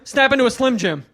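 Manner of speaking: loud, high cheesy pitchman bark; imitating hack comic. Comic mimics the warm-up guy's crowd work, loud and cheesy. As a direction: slam it like an old ad slogan.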